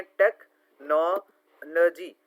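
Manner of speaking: "टेक्नोलॉजी" very slow, टेक, नो, ल-जी with gaps; syllable by syllable. Shown as a demonstration. Teacher demonstrating syllables to students, "टेक्नोलॉजी" slowly broken up. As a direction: break "टेक्नोलॉजी" into separate beats. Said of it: "तोड़ तोड़ के word को पढ़ना".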